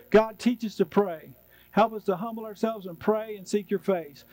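calm, earnest prayer voice; closing prayer. Real, not acted. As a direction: pray humbly, steadily, with the congregation.

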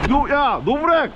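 신나서 크게 외치는; shouting out. Real, not acted. Shouting while riding. (크게 외치기)

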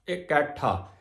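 ਇਕੱਠਾ said "ikaṭhā", with sihari on ਈੜੀ; short i opening ਇਕੱਠਾ; pronunciation of ਇਕੱਠਾ. Shown as a demonstration. Teacher repeats ਇਕੱਠਾ for the congregation. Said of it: "ਈੜੀ ਸਿਹਾਰੀ".

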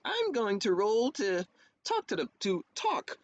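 stereotypical flirty bard. Retold or imitated. Player mocking bards who fall for any smile, flirty. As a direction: lightly parody a bard eager to chat someone up. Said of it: "like, the stereotypical bard".

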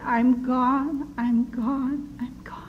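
retold surrender, dwindling away to a faint whisper; fading to whisper. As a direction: let each repeat fade into a breath of a whisper. Reliving collapse and surrender to God.

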